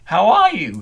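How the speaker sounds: very loud, high clown shout; the clown shouts a friendly question, high and loud. A narrator's reading. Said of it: "he continued shouting".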